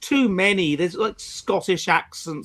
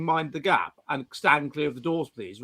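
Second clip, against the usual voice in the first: lightly voiced Underground announcer with authority; authoritative announcer; 2 semitones lower, 4 dB quieter than usual. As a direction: state it as a mildly firm station order. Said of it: "authoritatively saying".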